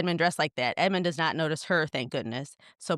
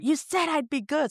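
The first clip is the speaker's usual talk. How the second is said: play-acted high, drawn-out screaming; 9 semitones higher than usual. Retelling a character screaming at the woman who misled him: retelling a scream. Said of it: "screams at her".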